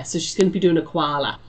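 a self-confessed terrible try at an Australian accent; lightly put-on Australian vowels on koala; hint of an Aussie accent, badly done. Shown as a demonstration. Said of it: "was my best Aussie accent".

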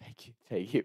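soft, imitated drunken thanks; barely able to speak. Drunk friend thanking his rescuers, soft and barely speaking. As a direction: mimic a drunk who can barely get words out. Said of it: "he could barely speak".

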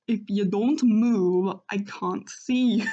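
badly faked Scottish accent, loud and drawn out; Doggo. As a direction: have a go at a Scottish-accented guard dog. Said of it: "I can't do a Scottish accent at all".

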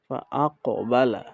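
ফা, আক, বালা with short vowels and bounced k; quick vowels, echoed consonant. Shown as a demonstration. Teacher puts the rules together, short vowels and bounce. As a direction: keep ফা and বালা short, echo আক. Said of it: "হরকতের উচ্চারণ তাড়াতাড়ি".

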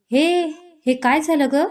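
high, alarmed burst of concern; startled. Acted. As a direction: jump in, shocked she's crying. Friend startled by sudden crying. (अचानक दचकून, काळजीने वर चढलेला आवाज)

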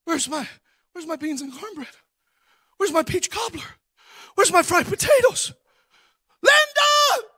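husband coming home hungry, calling his wife. Retold or imitated. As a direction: holler through the house for her.

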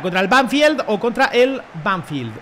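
first "Banfield" as "banfyeld", second "Banfield" as "banfil"; contrasting pronunciations. Shown as a demonstration. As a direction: set "Banfield" with "fyeld" against "Banfield" with "fil". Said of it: "No sé cómo se dirá". ("Banfield" primero con diptongo, luego como "banfil")

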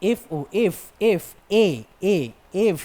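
"এফ" broken down to its opening "এ" sound, repeated; teacher breaking "এফ" into sounds; sound demo. Shown as a demonstration. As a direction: repeat "এফ" and "এ" one by one to expose the vowel. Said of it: "এফ, এটা আগে আসছে".

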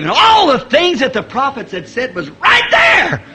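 building sermon fervor; full-force preaching. Acted. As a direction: preach it out to the congregation.

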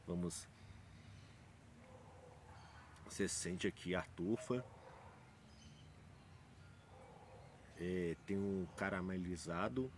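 glass held over mouth; speaking while sniffing drink; talking into a glass. Real, not acted. Seen 0: Whisky glass held over mouth and nose while speaking; lowered only briefly.

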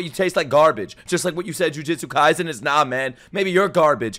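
loud, heated ranting; pissed off. Real, not acted. Streamer ranting at a bad anime take, pissed off. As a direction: argue back with mounting indignation. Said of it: "I'm gonna get pissed".

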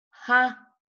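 "Ja" high and strong by itself; stressed syllable alone. Shown as a demonstration. Teacher pointing out the only accented part, "Ja" stressed. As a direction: isolate "Ja" with a firm push. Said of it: "Solamente ahí".

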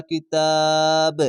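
final ব in কিতাব released with a short echoing bounce; qalqala echo. Shown as a demonstration. Teacher shows learners the qalqala, bouncing the ব of কিতাব. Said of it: "এটি কলকলা".

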